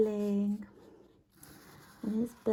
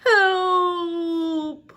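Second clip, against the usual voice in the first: high, loud panicked yell; frog's cry for help; 8 semitones higher, 7 dB louder than usual. Acted. Frog crying out as the dog arrives, loud panic. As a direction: shout for help like a frightened frog. Frog cries out at story end.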